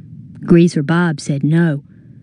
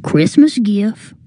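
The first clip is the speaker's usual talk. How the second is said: grinning; 4 semitones higher, slower than usual. Acted. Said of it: "He grinned and said".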